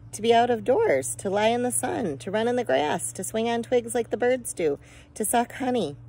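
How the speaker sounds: put-on high, dreamy and eager, a child listing treats; a little girl longing for the outdoors, pitched high; eager delight. A narrator's reading. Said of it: "her face all right, alight".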